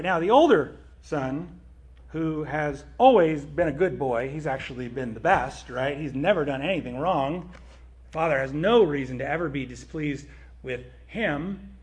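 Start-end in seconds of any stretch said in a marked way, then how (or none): 2.1-11.7 sarcastic. Acted. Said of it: "I'm being sarcastic".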